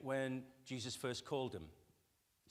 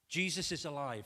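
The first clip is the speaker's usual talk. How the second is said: Jesus is alive, proclaimed louder with stress on Jesus; loud proclamation; 4 semitones higher, 6 dB louder than usual. Shown as a demonstration. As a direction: announce it boldly, hitting Jesus. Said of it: "this passage".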